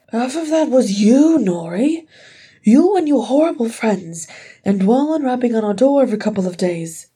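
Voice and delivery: high, loud reproach; angry accusation. A narrator's reading. Ori blaming his brother and his friends, angry accusation.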